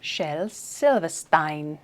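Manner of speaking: slow, amateur British accent. Shown as a demonstration. Attempting the author's name in a British accent that slips. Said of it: "say that in a British accent".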